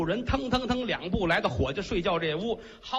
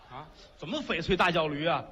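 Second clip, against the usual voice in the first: mocking question; 4 semitones lower than usual. Boss mocks the repeated boast.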